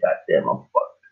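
slow, whispered curse under the breath; imitating a whispered aside of regret; muttered dismay. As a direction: mutter it to yourself, slowly. Retold dismay, muttered to himself.

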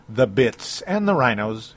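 bears turned into "bits", drawn out slowly; catchphrase mispronunciation. Retold or imitated. Host recalling an old show's nickname for teams, mispronounced catchphrase. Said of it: "that's what it always say, the bits".

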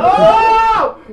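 loud high-pitched "oh!" with a laugh in it; hammed-up startled scream; shocked yell. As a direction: holler in comic shock. Retold shock at being violated.

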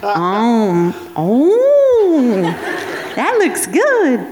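high, giggly, admiring; laughing swoon. Retold or imitated. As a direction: gush through laughter. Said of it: "I was like".

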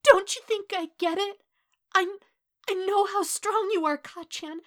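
high, loud tearful pleading; anguished crying confession; choked with misery. A narrator's reading. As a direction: stammer it out through tears. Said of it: "warbling and choked with misery".

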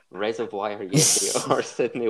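slow, laughing quiz read; can't keep a straight face reading it out; laughing through it. Real, not acted. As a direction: quizmaster cracking up mid-question.

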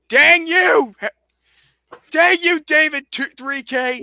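mock curse.

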